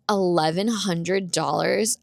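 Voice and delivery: slow, drawn-out incredulous repeat; retold disbelief. Customer hears the repair price, slow disbelief.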